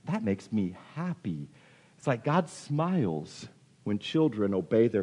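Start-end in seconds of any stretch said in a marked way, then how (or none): 0.0-1.5 soft, low, contented; pleased God. Acted. God watching children obey, softly pleased. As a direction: say it quietly, as a fond onlooker. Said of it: "he's like".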